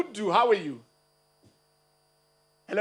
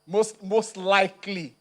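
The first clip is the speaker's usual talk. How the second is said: doubtful echo; much slower than usual. Retold or imitated. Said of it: "You are not too sure".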